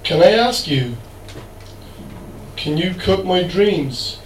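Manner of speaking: slow, measured poem reading with long pauses; poetry recital. Acted. Poet reads winning poem to audience, slow measured recital. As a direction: recite line by line, letting each phrase hang.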